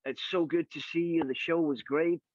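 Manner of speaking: gently mimicked LA dude greeting; laid-back LA talk. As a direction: loosely imitate a friendly LA fan. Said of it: "in his finest L A talk".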